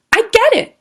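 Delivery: high, loud, thrilled I get it; excited. Shown as a demonstration. Bird finally understands, excited and delighted. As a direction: burst out with sudden understanding. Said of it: "That's how I know to say it with excitement".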